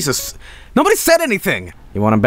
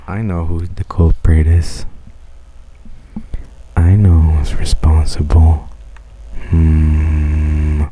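low, slow hushed detective voice; mock detective; 11 semitones lower, much slower than usual. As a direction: whisper it like you caught the culprit. Dramatic sinister detective line.

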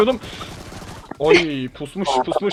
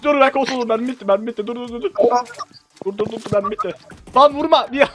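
panicked pleading; 6 semitones higher, 4 dB louder than usual. Real, not acted. Losing the duel, begging not shot.

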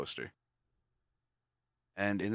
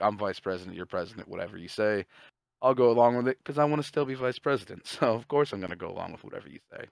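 fake yes-man; 3 semitones higher, 6 dB louder than usual. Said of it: "he doesn't really mean it".

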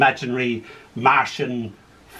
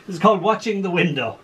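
laughing; 3 semitones higher, faster than usual. Real, not acted. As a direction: announce the title through a laugh. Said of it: "we're going to change now".

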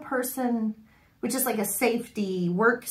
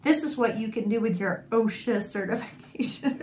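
laughing sarcasm. Retold or imitated. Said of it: "I was like".

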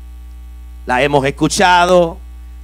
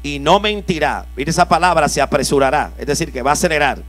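scripture reading; 3 semitones lower than usual. Acted. Preacher rereads the verse.

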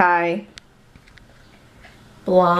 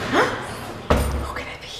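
much higher, soft, slow sing-song half-whisper; playful teasing; 12 semitones higher, 7 dB quieter, much slower than usual. Shown as a demonstration. Mom teasing the camera before the guest appears, high soft sing-song. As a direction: tease it up high and breathy.

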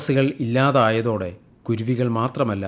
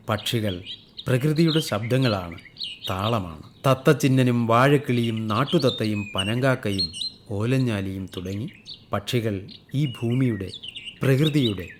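poetic recitation; 3 dB quieter than usual. Acted. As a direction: let each phrase settle like a poem. Poetic closing reflection on birds. (കവിതപോലെ നിർത്തി നിർത്തി വായിക്കുന്ന ശൈലി)

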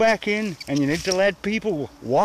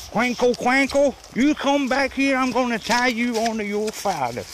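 higher-pitched call after a straying dog; 4 semitones higher than usual. Real, not acted. Walker calling his runaway dog back, raised call.

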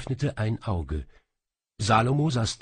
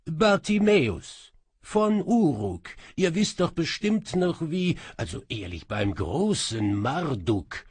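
irritated djinn; 7 semitones higher, 4 dB louder than usual. Acted. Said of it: "verärgert".

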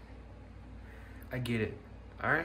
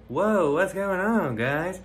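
voice demo; 7 semitones higher, 6 dB louder, slower than usual. Shown as a demonstration. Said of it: "I can talk differently too".

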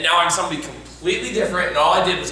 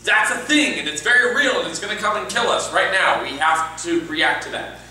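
raised pitch, settling as it goes on; committed declaration. Shown as a demonstration. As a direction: state it as an urgent fact. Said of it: "Instead of going".

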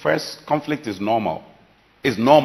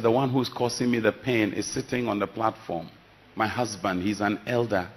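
much softer and lower, hurt confession; soft grieving reply; 5 semitones lower, 7 dB quieter than usual. Retold or imitated. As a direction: barely voice it, the pain still fresh. Crying woman answering pastor.

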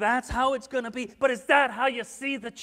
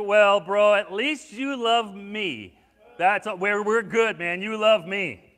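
a louder, easygoing bro voice, lightly hammed; mock grateful buddy; 6 dB louder, slower than usual. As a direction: play a buddy shrugging it off. Imagined Tika's reply.

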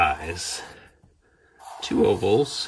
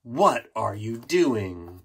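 puzzled slow question; much slower than usual. Real, not acted. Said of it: "Wait a minute".

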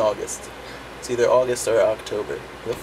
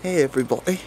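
badly faked British accent; horrible British accent. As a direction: introduce yourself in a poor put-on British accent. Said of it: "That's a horrible British accent I just put up".

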